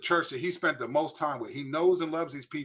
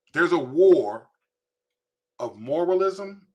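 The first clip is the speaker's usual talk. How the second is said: proclaiming loudly; 3 semitones higher, 7 dB louder, slower than usual. Real, not acted. Preacher proclaiming the real war.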